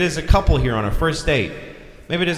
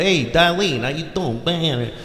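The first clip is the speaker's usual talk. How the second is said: a hint of a strange accent, softer; Joey's odd accent; 6 dB quieter than usual. Shy guy greeting Darlene, quiet mock accent. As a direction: lightly mimic a goofy guy's odd accent. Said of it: "I don't know why he talks like that".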